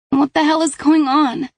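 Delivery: put-on high, loud startled girl; startled teen girl. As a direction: voice the dazed teen waking. Kat wakes up confused.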